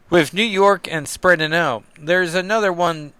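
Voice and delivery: hammy Kentuckian twang on the comic line; Kentuckian accent. Retold or imitated. Sam naming the demon leaders to Cap, in a mock Kentuckian accent. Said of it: "Kentuckian accent?".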